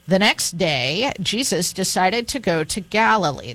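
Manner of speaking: measured Bible reading with a lifted opening; scripture reading. Acted. Host reading John's Gospel to radio listeners, measured scripture reading. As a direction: read the verse out to listeners.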